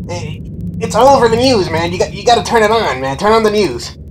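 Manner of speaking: high, loud goofy voice, rattled off fast; Mister Ghostface's stupid voice. Retold or imitated. Masked friend insisting he watch the news, high goofy voice. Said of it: "in his stupid voice".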